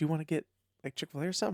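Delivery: put-on whisper. Retelling what a man whispered to the speaker at breakfast, in a retold whisper. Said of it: "Jamal's like whispering to me".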